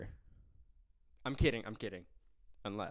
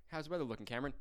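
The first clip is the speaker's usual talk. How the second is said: higher, lightly put-on anchor handoff; news anchor voice; 5 semitones higher, faster than usual. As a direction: toss to the weatherman. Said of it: "go to Cameron Smith with the weather".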